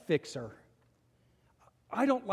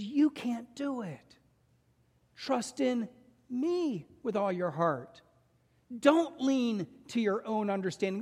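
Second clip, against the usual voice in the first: slow, higher, calm divine voice; voice of God; 5 semitones higher, slower than usual. Acted. God reassuring the exhausted fixer, slow and calm. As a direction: soothe like a patient father, slowly.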